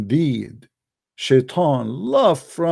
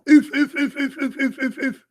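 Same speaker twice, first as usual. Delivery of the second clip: laughing stammer; 9 semitones higher than usual. Real, not acted. Laughing mockery of the hadith.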